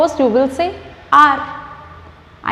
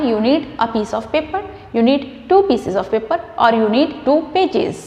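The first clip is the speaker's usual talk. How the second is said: slow, careful example list; slow example drill; much slower than usual. Shown as a demonstration. Teacher listing example sentences, slowly. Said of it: "you need one page".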